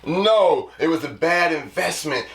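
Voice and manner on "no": loud, high cries of no, building then easing; dismayed shouting. Pretend. Buyer shouting no as the transmission slips, in loud dismay. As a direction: shout no over and over like the car just died.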